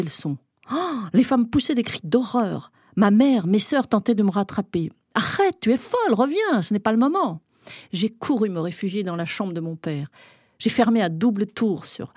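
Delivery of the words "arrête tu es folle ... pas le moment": high, loud frantic plea; loud, much higher panicked calling; pleading cry. Acted. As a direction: shriek at her to stop and come back. Mother and sisters pleading, chasing her.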